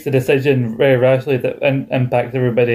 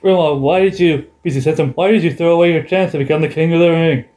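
mock interviewer; 5 semitones higher than usual. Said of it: "Benoit gets asked".

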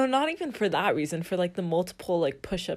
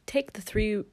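Australian satnav woman; Australian Siri. Retold or imitated. Phone assistant giving freeway directions, Australian accent. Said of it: "I have an Australian female".

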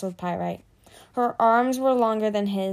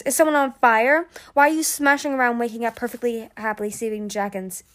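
annoyed; 3 semitones higher, 4 dB louder than usual. Acted. Grumpy dragon woken up.

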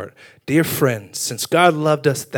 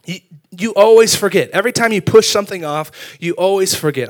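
mildly raised complaining voice; acted nagging frustration; imitated arguing wife; 4 semitones higher, 4 dB louder than usual. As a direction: retell a spouse's reproach, pitched up. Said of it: "gotten in so many arguments".

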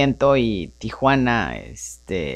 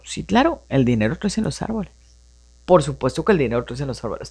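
ironic agreement; 3 semitones lower, faster than usual. Pretend. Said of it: "yo ahorita digo".

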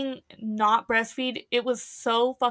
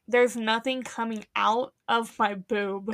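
softer, slow, near crying; imitated tearful plea; 3 semitones lower, 4 dB quieter, slower than usual. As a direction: plead through mock tears. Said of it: "You were literally like".

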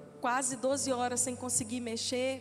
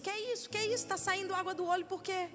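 mock surprise; 4 semitones higher, faster than usual. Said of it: "Ele olhou pra mim e disse".

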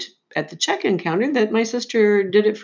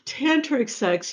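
slow disbelieving repeat; 6 semitones higher, 4 dB quieter, slower than usual. Real, not acted. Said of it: "So disturbing".

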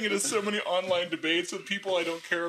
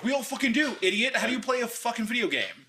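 mock exasperated retort; 8 semitones higher than usual. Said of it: "I'm like".

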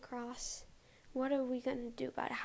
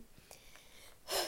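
breathless sigh; 7 semitones higher, 5 dB quieter than usual. Real, not acted. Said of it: "sorry, I was out of breath".

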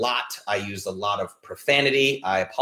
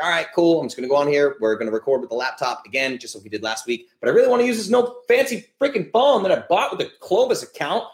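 frustrated rant; 4 semitones higher than usual. Retold or imitated. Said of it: "was like".

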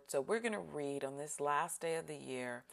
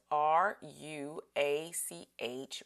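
spelled out; slower than usual. Shown as a demonstration. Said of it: "if you'll write this down".

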